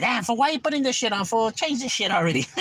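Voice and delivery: imitating the homies. Friends telling him to change the video, mock annoyed. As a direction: whine it up high like a bored friend.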